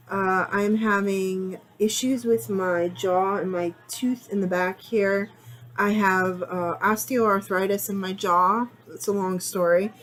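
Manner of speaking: speaking through jaw pain; muffled. Real, not acted. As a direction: talk around a sore tooth. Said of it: "if I sound a little muffled".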